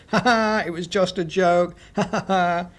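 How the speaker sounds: high taunting ha ha; mocking laugh. A narrator's reading. Boy mocks the tricked villagers, taunting laugh. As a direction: tease them with a gloating laugh. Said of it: "jumped out from the tree and said".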